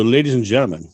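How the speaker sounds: booming high ring announcer build-up; boxing ring announcer. Acted. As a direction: hype her up like a title fight. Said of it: "let's get ready to rumble".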